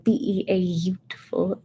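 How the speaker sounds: soft whispered quote; whispered movie line. Retold or imitated. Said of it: "there's a few lines like".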